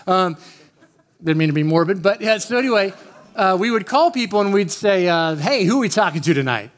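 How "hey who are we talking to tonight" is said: lightly voiced radio DJ, quick patter. Prank caller posing as DJ, lightly imitated radio voice. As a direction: give a hint of a late-night DJ. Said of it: "We'd talk like that".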